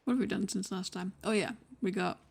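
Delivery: talking through a mouthful; mouth full. Real, not acted. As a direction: cheeks stuffed full. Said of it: "my mouth is full of food".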